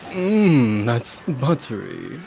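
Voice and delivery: slow breathy-free purred buttery; mock sensual. Shown as a demonstration. Showing his friend the embarrassing line, slow sensual. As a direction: savor it slowly like a food ad. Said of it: "Is it?".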